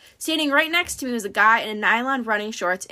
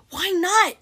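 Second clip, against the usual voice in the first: higher, indignant snake retort; demanding; 8 semitones higher than usual. A narrator's reading. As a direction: demand it in George's raspy voice. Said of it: "George demanded".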